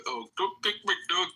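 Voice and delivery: needling imitation; mock pleading. Mocking someone's pleading talk.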